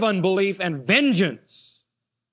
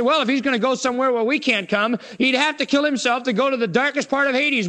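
smug Pharisees; 5 semitones higher than usual. Acted. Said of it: "And they said".

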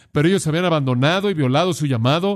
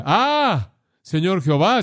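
dismayed cry; 4 semitones higher, slower than usual. Retold or imitated. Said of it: "Él dice".

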